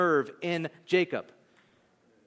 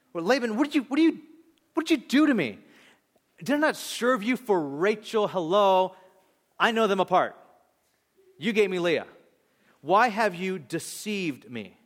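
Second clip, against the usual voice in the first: indignant Jacob; 2 semitones higher than usual. Acted. Jacob protests to Laban.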